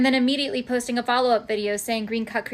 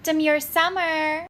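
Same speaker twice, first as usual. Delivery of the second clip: mock demure; 4 semitones higher, slower than usual. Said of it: "tell me you're demure by being like".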